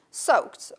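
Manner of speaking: "Soaked" closing on K then T; K and T ending. Shown as a demonstration. Teacher repeats the word to show the cluster, "Soaked" ending K-T. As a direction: end "Soaked" in T, with no D. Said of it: "it's pronounced K and T".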